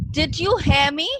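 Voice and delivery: loud bellowing demand. Acted. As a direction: bellow it at the boys. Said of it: "bellowed the man".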